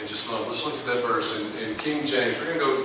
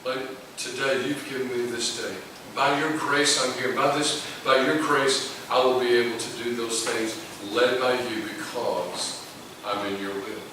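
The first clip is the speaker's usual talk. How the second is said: humble prayer. Pretend. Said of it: "You'd say".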